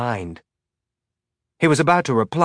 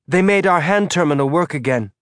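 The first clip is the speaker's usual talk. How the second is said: put-on higher, eager boy's voice; young boy voice; 6 semitones higher than usual. A narrator's reading. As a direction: play a hopeful young kid.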